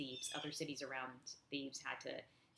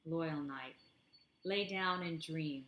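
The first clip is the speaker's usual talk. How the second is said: slow, measured poetry recital; deliberate poet's cadence; poem reading; slower than usual. Acted. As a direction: give each line of verse room, falling at its end.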